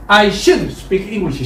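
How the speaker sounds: stretched out slowly for the class; slow model sentence. Shown as a demonstration. Teacher models the sentence before the class repeats, slow. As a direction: drill it slowly, word by word. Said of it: "나는 영어를 말하는 게 가장 좋겠어".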